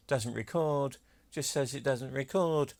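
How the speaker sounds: lightly put-on eBay seller accent; mock seller accent. Collector mimicking sellers of CD recorders on eBay, mock seller accent. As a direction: imitate a seller's particular accent, only lightly exaggerated. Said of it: "they always say that in that particular accent".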